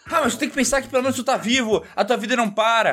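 high, bubbly, relentlessly upbeat; overly cheerful friend. Retold or imitated. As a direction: chirp it like nothing is ever wrong. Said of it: "Daí ela falava assim".

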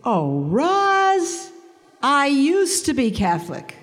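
high, gushing friend's voice; lightly voiced former Catholic friend; mimicking a friend. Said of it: "This is the greeting".

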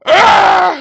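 very high, loud frustrated shriek; exasperated scream. Retold or imitated. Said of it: "screamed internally".

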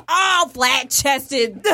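slow, drawn-out smug put-down; smug jab. Retold or imitated. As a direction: savor the insult slowly. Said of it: "I'm like".

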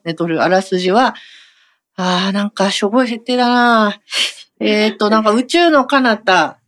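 lightly voiced weary woman talking to herself after deadline; a hint of a worn-out artist unwinding alone; tired manga artist. Acts a solo skit. (締め切り明けの疲れた独り言)

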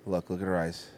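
hushed, breathy whisper. Real, not acted. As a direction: whisper it in anticipation. Whispered watching her drink.

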